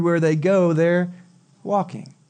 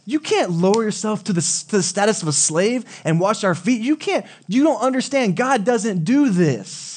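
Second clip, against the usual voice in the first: high-pitched, pleading outrage, slowing hard on the last line; mock outraged disciples; 6 semitones higher than usual. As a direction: play the shocked disciples protesting to their master. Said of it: "They're probably outraged".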